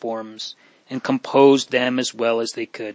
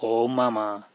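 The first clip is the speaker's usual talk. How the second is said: broken sob; 2 semitones lower, 7 dB quieter than usual. A narrator's reading. Henry weeps for dead mother.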